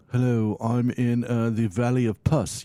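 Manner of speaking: slow, hammed-up romantic introduction; mock romantic. Shown as a demonstration. Joking band member introducing himself, mock romantic. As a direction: introduce a gross name as if romantic. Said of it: "you gotta sound like, you know, romantic".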